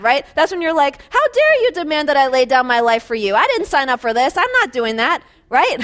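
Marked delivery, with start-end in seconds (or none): 1.1-5.2 louder, half-hammed outrage; mock indignation. To the spouse asking for milk, mock angry. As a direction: play the offended spouse, a bit over the top. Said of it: "that's when you get mad".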